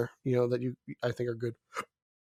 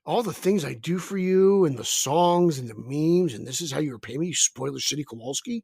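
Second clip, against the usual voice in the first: mock outrage. Friend scolds the spoiler in mock fury. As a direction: scold him like a wronged friend.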